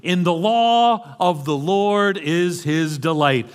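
"law" leaned on, slow reading; scripture read with weight on "law"; stress on law. Shown as a demonstration. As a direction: linger on "law" in a measured read. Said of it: "So the focus is on the word".

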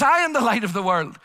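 loudly proclaimed; loud proclamation. Retold or imitated. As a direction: call it out over the festival crowd. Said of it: "in a loud voice says".

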